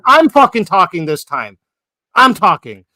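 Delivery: loud, cutting her off hard; angry shout. Real, not acted. Man shouting down Angelica who keeps interrupting, loud angry shout. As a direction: shout her down so you can talk.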